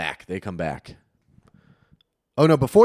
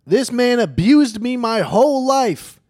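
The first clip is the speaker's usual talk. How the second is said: high, loud, drawn-out mock scream; imitating a screaming woman at full volume; retold scream; 12 semitones higher, 7 dB louder, slower than usual. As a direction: scream it slowly like someone making a public scene.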